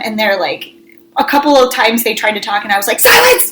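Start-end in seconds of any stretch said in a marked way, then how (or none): 3.0-3.5 very high-pitched screeched command; re-enacted mom's shrill outburst; retold yelling. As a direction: shriek it to cut the kids off. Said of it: "I'm, like, yelling at them".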